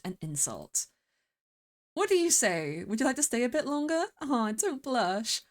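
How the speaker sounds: lightly acted, lilting storybook reading; lightly voiced spring fae. Spring fae flirting with the player, lightly teasing. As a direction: read it as a gently teasing fae. Reads a spring fae's dialogue.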